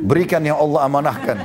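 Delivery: mock demand through a laugh; laughing imitation. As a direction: quote it while cracking up.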